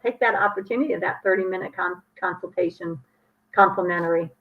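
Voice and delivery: fumbled first take, stumbling on the words; practicing a speech. Real, not acted. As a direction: trip over the offer while rehearsing. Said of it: "okay, let me try that again".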